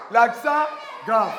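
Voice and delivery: slow, called out to the class; called-out model. Shown as a demonstration. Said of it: "Nous allons maintenant avec l'accent grave".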